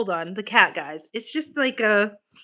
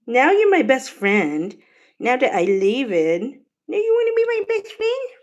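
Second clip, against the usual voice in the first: teasing pet talk; 5 semitones higher, 4 dB louder than usual. Real, not acted. Teasing cat.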